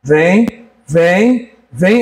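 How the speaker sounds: low, gentle coaxing to come along; coaxing call. Retold or imitated. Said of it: "ela foi fazendo assim comigo".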